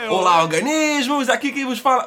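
cracking hungover voice; the voice breaks on the greeting; voice giving out. Real, not acted. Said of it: "minha voz tá falhando".

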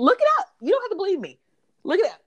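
high, cackly witch screech. Real, not acted. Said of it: "It sounds like the Wicked Witch of the West".

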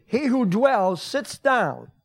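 drawn-out repeat with stress; the preacher slows down to savor the line; slow, deliberate. Shown as a demonstration. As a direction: stretch every word of it. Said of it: "I want to repeat this".

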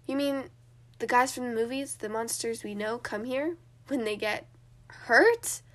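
rising disbelief on hurt; incredulous question. Acted. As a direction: ask it skeptically, voice shooting up. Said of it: "James asked while raising an eyebrow".

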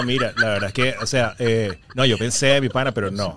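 low-pitched, lightly mocked caraqueño; Caracas accent. Showing how a caraqueño talks, Caracas accent. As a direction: imitate a laid-back Caracas accent. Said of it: "tú me hablas a mí de un caraqueño".

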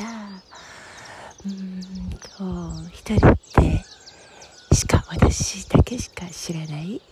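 excited hushed whisper. Real, not acted. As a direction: whisper the secret place.

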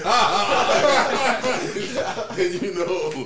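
cracking up while talking; laughing through the words. Real, not acted. Joking about sending a pic.

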